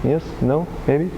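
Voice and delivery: put-on German-accented deadpan aside; mock German accent. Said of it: "Superman have accent like this".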